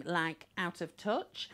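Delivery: touch rises up at the end like a question; rising intonation. Shown as a demonstration. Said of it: "rising intonation that I just did".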